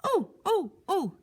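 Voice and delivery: high, drawn-out sing-song oh; high fluttering oh, oh, oh; concerned mother. Acted. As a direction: coo like a worried mom. Father peers into mouth.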